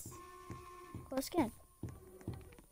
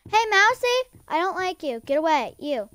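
shooing away; 3 semitones higher than usual. Real, not acted. Shooing the Mousy character.

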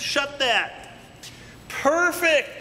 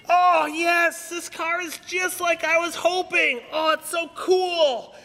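excited; 3 semitones higher than usual. Real, not acted. Finished cutting the car.

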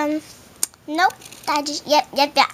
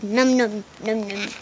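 pretend munching; 7 semitones lower, 5 dB quieter than usual. Pretend eating the cheese.

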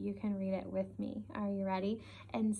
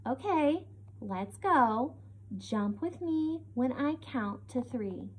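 lightly voiced storybook character, like talking; Piggy; 2 semitones higher, slower than usual. Shown as a demonstration. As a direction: read it as lively, natural talk with pauses. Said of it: "this is where Piggy is talking".

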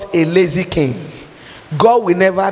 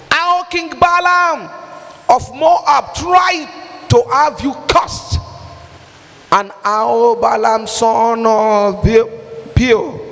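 scripture reading; 3 semitones higher than usual. Acted. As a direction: boom the verse out like God himself speaking. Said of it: "let me go back to that verse and read for you".

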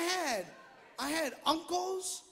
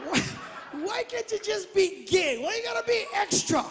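mock exasperation, pitched higher; exasperated father; 5 semitones higher than usual. Father teasing son about being extra, mock exasperated. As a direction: needle him with a whiny why. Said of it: "I tell him".

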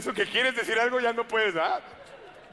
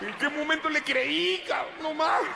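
anguished exclamation; 6 semitones higher than usual. Retold or imitated. Hangover guilt, exclaiming.

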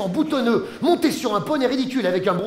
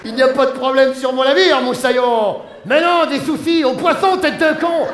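gruff captain; 4 dB louder than usual. Acted. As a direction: growl like a rough sea captain. Captain Igloo rants at Pepito. (capitaine bourru qui hausse le ton)

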